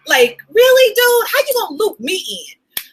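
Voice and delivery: high-pitched, incredulous objection; mock protest. Real, not acted. Coach objecting to being looped into signs from God, incredulous. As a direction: protest as if unfairly roped in.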